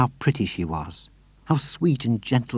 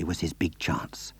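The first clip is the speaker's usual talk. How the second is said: hushed, slow secret whisper; 5 semitones lower, 10 dB quieter, slower than usual. A narrator's reading. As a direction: breathe it like a secret. Whispered narration.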